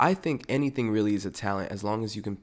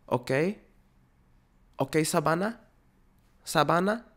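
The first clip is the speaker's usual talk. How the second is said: put-on higher, insistent accented scolding; accented parent voice; 7 semitones higher than usual. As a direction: nag the daughter by name. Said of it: "whatever country accent this is".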